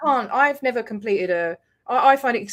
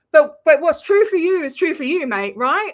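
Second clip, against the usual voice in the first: 1 retold sarcastic jab; 4 semitones higher, 5 dB louder than usual. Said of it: "I got a bit angry".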